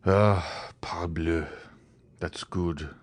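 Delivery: gloomy mutter under the breath. A narrator's reading. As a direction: let it sink with dark resignation. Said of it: "said Albert with a gloomy tone".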